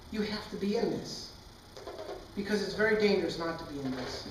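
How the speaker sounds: lightly voiced parent explaining to a baby; gentle parental firmness. Parents' thoughts toward crying baby.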